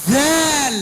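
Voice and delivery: ذال with the tongue tip pushed between the teeth. Shown as a demonstration. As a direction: blow air over the tongue tip for ذال. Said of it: "فنقول".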